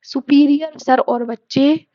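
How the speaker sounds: slow, each word spaced out for writing; slow dictation. Shown as a demonstration. Teacher repeats the mnemonic slowly so students can copy it. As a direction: spell out superior sir और बच्चे slowly. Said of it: "फिर से बोलूंगी मैं".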